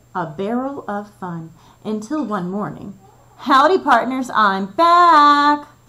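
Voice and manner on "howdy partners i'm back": very loud, booming, thundering, high call. A capybara bursts back into the classroom, thundering. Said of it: "thundered Camilla Capybara".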